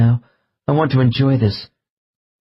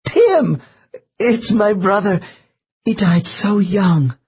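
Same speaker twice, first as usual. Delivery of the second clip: much higher, bursting with delighted recognition; high-pitched joy of recognition; 9 semitones higher, slower than usual. A narrator's reading. Subject recognizing her drowned brother, high joyful outburst. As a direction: cry out his name as if spotting him across a room. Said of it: "high-pitched laugh of recognition".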